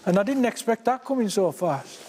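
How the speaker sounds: eager, caught up in the moment; excited. Real, not acted. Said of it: "I'm getting excited myself now".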